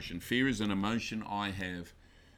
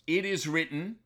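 firm declaration; 7 semitones higher than usual. Shown as a demonstration. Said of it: "If that spirit fear comes".

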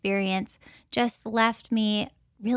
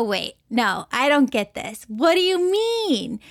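stunned confusion; 2 semitones higher than usual. Retold or imitated. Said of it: "I'm just shocked and stunned".

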